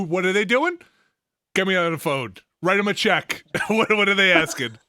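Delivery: lightly hammed-up boss on a deal; mock impatient executive. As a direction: bark orders like a cartoon tycoon. Mocks an EA boss making deals.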